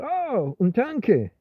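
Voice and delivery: light, high Spanish barmaid offering the tanque; a hint of a cheerful waitress, Oh pitched high; imitating the barmaid's bright Oh; bar girl. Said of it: "the girl said".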